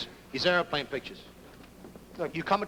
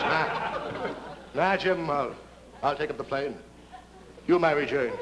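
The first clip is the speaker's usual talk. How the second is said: heroic pilot; 5 semitones lower, slower than usual. Acted. Bill answers Jim's noble offer.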